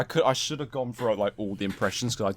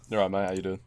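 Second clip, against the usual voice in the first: Sassy the Sasquatch impression; 5 semitones lower, 4 dB quieter, faster than usual. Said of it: "I did my impression of Sassy".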